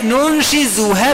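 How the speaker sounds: ننشزها very slowly with a buzzing ز; with Zay. Shown as a demonstration. Teacher contrasting the ر and ز readings. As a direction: recite ننشزها, lean on the ز. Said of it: "بالزاي".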